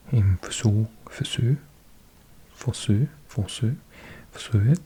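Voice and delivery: forsøg repeated, each with a rise. Shown as a demonstration. Learner drilling the app's forsøg, rising. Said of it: "repeating the app's word".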